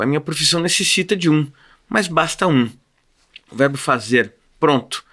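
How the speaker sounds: deliberate phrases, each falling to a pause; literary monologue reading. Acted. Hidden subject reasons about needing one verb, deliberate monologue reading. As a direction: weigh each short sentence like a monologue.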